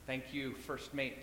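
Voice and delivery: steady and unbothered, settling his mate; calm captain. Acted. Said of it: "said the captain calmly".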